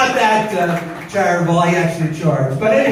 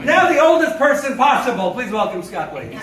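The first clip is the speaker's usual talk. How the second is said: mock announcer; 5 semitones higher, 4 dB louder than usual.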